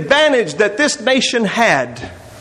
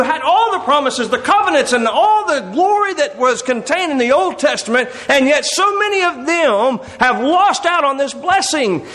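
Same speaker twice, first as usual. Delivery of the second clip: higher-pitched worried protest; mock objection; 5 semitones higher than usual. Reader challenging God about Israel losing out on the blessing, mock objection. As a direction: question God as a puzzled reader would.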